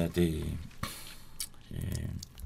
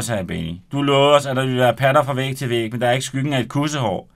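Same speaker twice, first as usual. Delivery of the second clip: lively read-aloud narration with voiced characters; story narration; 4 dB louder than usual. Author reading his novel aloud on radio, animated. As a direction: read the chapter to the studio audience with energy.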